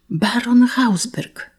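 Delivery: slow, high, astonished; stunned exclamation. Acted. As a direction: repeat the name, thunderstruck. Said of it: "zawołał Hugon".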